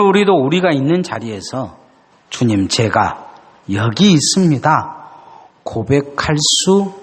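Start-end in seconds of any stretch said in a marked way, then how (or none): 2.3-6.9 solemn invitation. Real, not acted. Preacher urging confession.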